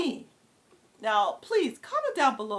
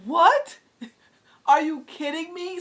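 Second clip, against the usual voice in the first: shocked disbelief; 7 semitones higher, 8 dB louder than usual. Retold or imitated. Shocked at police refusal.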